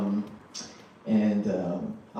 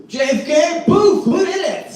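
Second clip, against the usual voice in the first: much higher and louder, laughing accusations; mock accusing; 8 dB louder, slower than usual. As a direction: needle him as if the answer is obvious. Mock interrogating an American.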